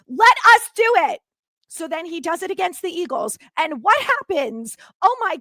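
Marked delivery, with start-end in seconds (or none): 0.1-1.2 loud, higher demand; players demanding. Retold or imitated. Players telling the coordinator to let them rush, shouting. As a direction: slam the point home as the players. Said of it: "sit down the defensive coordinator and say to him".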